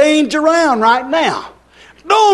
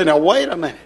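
resolute self-talk. Acted. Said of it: "you shake yourself and you say".

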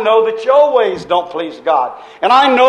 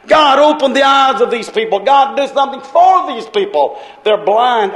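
retold prayer; 3 semitones higher than usual. Preacher on hotel balcony praying for people, pleading. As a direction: plead with God for the crowd. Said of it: "and I prayed, I said".

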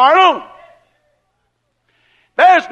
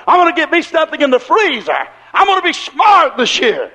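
boastful scheming farmer. Retold or imitated. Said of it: "instead of saying".

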